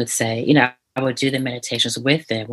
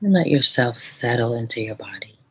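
guided meditation. Shown as a demonstration. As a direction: gently lead the listener into calm. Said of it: "Can we do one right now?".

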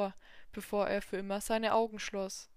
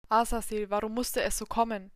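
put-on dying old man; 7 dB louder than usual. Dying god asks his son.

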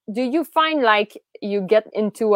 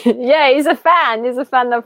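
puppet voice; 2 semitones higher, 3 dB louder than usual. Acted. Puppet voice answers host.

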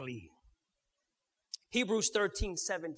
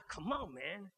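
mock pushy pastor. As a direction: nag someone to confess their struggles.

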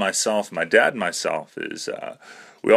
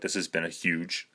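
a mild, softer thought voice; inner thought; 3 semitones lower, 7 dB quieter than usual. Retold or imitated. Thinking about the drunk guy at the door, softer inner voice. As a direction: say it like thinking to yourself. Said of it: "in my head, I go".

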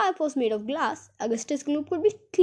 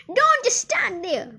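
high, slow, exasperated yell; screaming; 7 semitones higher, slower than usual. A narrator's reading. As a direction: shriek it at a useless husband, drawn out. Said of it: "Miss Gloop screamed at Mister Gloop".

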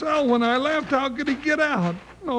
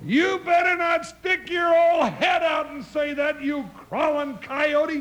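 angry shout; 3 semitones higher than usual. Acted. Deputy yelling defiance at the outlaw outside, angry shout. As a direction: shout him down through the walls.

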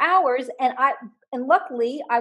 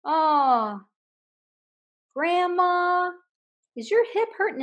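higher voice, lightly acted concern for grandma; improv partner voice; 7 semitones higher, slower than usual. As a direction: play the scene partner checking on grandma, half in jest. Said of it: "and they say".

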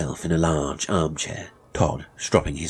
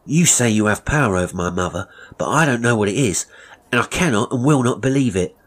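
put-on higher, louder, indignant young Tobias; defiant apprentice boy; 5 semitones higher, 4 dB louder than usual. Boy refusing to believe threats about his mother, defiant. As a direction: stand up to a threatening master, voice raised.

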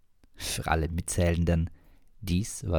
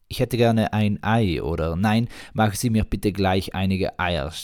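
louder order; 2 semitones higher, 6 dB louder than usual. Acted. Driver ordering eggs.

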